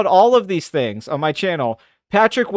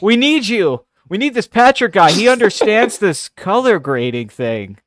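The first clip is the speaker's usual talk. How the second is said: higher, louder mock studio exec begging; mock eager studio exec; 4 semitones higher, 3 dB louder than usual. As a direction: pitch it like a desperate studio boss.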